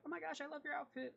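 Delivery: put-on high, sweet gushing girl voice; chirpy young woman, all smiles; bubbly sister. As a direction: gush over them like an eager little sister. Sister gushes over outfit.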